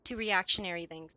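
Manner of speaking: choking on water mid-sentence; coughing through the words after water went down wrong; swallowed wrong way. Real, not acted. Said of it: "I'm choking on the water".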